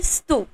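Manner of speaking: स्तु said short, half स joined to तु; stu. Shown as a demonstration. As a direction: blend half स into तु. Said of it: "स को आधा कर दो और तु". (स्तु)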